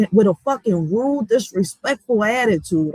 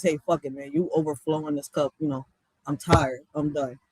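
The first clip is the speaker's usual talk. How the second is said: lower, softer, worn-out sigh of words; fed up; 9 semitones lower, 5 dB quieter than usual. Retold or imitated. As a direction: let it drop like you're finally done. Quoting someone finally fed up.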